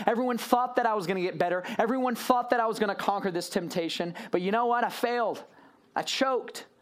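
exasperated, acted-out defeat; frustrated self-blame. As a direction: beat yourself up for choking. Voicing someone who gave up.

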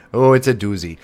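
light Midwestern twang on doozy; Midwestern accent. Shown as a demonstration. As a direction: say it like a Minnesotan. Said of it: "I said that with a very good Midwestern accent".

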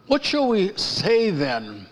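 slow, measured reading of the verse; slow scripture reading. Shown as a demonstration. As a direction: read the scripture deliberately, word by word. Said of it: "Romans six one".

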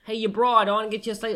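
high, loud hammed-up New York accent; brash New York guy offering a slice; mock New York. Still mocking New Yorkers, loud New York accent. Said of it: "not your best accent".

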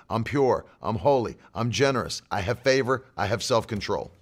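low, even list, each phrase falling; recited confessions of faith. Retold or imitated. Parent leading kids in bedtime confessions, low rhythmic recital. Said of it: "confessions of faith".

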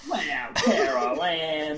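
slow, drawn-out Southern belle; lightly drawled Southern lady. Acted. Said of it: "we know what a Southern lady sounds like".

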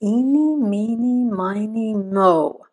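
drawn-out singsong count; childish counting rhyme. A narrator's reading. Man picks by a childish game, singsong chant. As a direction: chant it slowly like a playground rhyme. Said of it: "he resorted to a childish game".

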